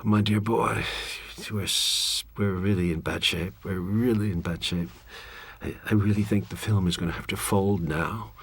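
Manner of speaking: mild imitated posh English accent, doom and gloom; a light touch of a plummy English accent, mournful; lightly voiced English gentleman bearing bad news; Graham Greene accent. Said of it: "in this impeccable Graham Greene accent".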